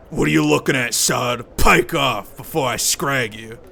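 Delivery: a hint of a surly tough guy sneering at a kid; slight menacing growl of a thug; Mort's voice. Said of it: "Why am I doing Mort's voice?".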